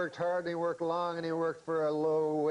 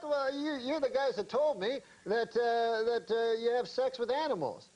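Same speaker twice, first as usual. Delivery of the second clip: higher, retold indignant protest; 4 semitones higher than usual. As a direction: imitate his offended outburst, pitched up. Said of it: "like, indignant".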